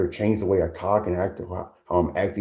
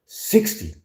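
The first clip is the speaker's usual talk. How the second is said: incredulous yelp; 13 semitones higher than usual. Real, not acted. Incredulous repeat of number.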